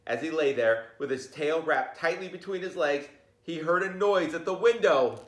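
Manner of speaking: storybook narration for a class; reading to children. A narrator's reading. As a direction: read it like a teacher at story time. Teacher reads picture book aloud.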